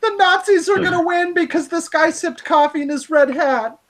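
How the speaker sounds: high, whiny fake sobbing; mock crying. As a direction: pretend to weep over nothing. Mock sobbing over the post.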